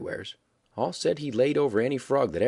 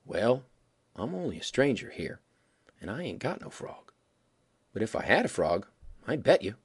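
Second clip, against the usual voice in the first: sad-like. Acted. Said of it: "kinder sad-like".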